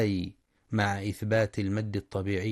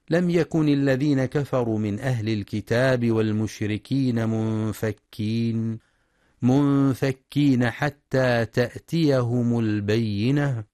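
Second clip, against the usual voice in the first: Quran recitation; 4 dB louder than usual. Shown as a demonstration. Recites Quran verse with tajweed. (تلاوة مجودة بطيئة)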